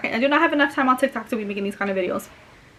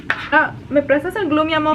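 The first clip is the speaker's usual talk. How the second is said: sweet asking voice; 6 semitones higher, 5 dB louder than usual. Acted. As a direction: coax it sweetly from your little one. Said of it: "Me asking my own child".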